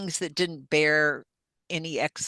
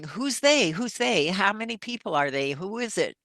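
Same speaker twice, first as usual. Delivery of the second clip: desperate questioning; 4 semitones higher than usual. Retold or imitated. Desperately questioning her sister.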